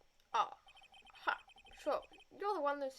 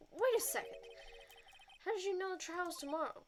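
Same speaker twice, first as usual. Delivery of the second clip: sudden suspicion; 7 semitones higher than usual. Acted. Young lawyer catches a slip.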